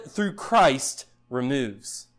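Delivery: normal talking voice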